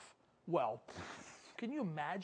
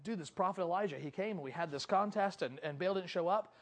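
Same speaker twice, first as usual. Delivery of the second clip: low, soft, deflated explanation; acted subdued admission; sheepish report; 5 semitones lower, 7 dB quieter than usual. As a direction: confess it quietly to your wife. Ahab sheepishly reporting to his wife.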